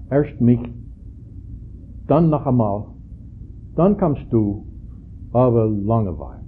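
put-on amateur Pennsylvania Dutch accent, halting between phrases; attempted Pennsylvania Dutch accent. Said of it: "I can't do the accent".

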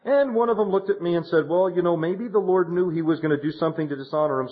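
a hint of the widow quoting the elders; widow's voice. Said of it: "She said".

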